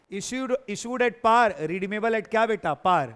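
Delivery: "issued at par" drawn out slowly, word by word; slow it down so they can write it; slow dictation. Shown as a demonstration. Teacher telling students to write the case, slowly. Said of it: "तो लिखो ना फिर".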